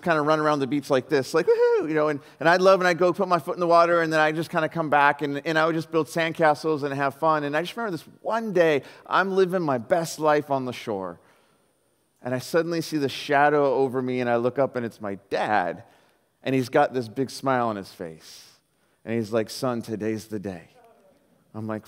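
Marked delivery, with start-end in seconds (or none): 1.5-1.9 put-on high-pitched kid's woohoo; playful whoop. Preacher mimics his younger self running on the beach, playful whoop. 19.5-20.7 fatherly announcement. Retold or imitated. Voices dad's announcement in story.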